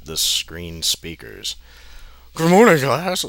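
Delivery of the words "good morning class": high, loud mock teacher greeting; hammed-up cheery teacher voice; creepy teacher. The creepy teacher greets the class, hammed-up and loud. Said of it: "said Mister Yakamura".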